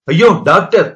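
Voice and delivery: anguished cry. A narrator's reading. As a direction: wail out to the doctor in distress. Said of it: "Mangala கதறினாள்".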